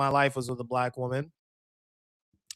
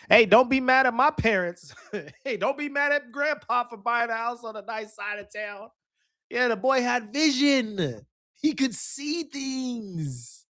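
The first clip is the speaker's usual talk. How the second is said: high excited voice; 9 semitones higher than usual. Acted. Mock defending grandpa, laughing.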